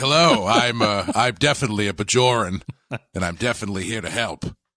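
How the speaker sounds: character voice, faltering and halting over words. Acting out a scene where a disguised Gul Dukat introduces himself: imitating Gul Dukat in disguise. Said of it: "And he's like".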